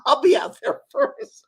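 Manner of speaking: high, hammed-up diva voice; mock Oprah. Imitating Oprah to a friend, mock diva voice. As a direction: play the star who wants the stage. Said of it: "And she goes".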